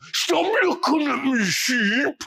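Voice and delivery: put-on a bored boy snapping at a sheep; cross with the sheep. A narrator's reading. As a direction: tell the sheep off.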